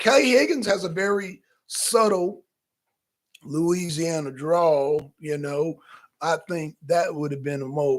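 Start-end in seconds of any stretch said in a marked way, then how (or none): 3.4-5.1 Louisiana drawl. Shown as a demonstration. Names drawl while stretching it.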